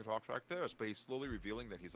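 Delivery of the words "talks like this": lightly imitated oddball narrator; a hint of the narrator's odd voice; narrator character. Showing friends how the reviewer talks, character voice. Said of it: "kind of character where he talks like this".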